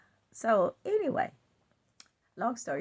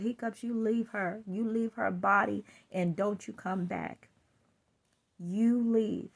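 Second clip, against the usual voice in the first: firm commanding voice; forceful command; 3 dB louder than usual. Retold or imitated. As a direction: order the hiccups away firmly. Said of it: "I said it with force".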